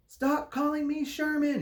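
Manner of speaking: high, loud furious shout; shouting angrily at being called Sherman. A narrator's reading. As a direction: yell it, fed up with the name. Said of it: "he shouted".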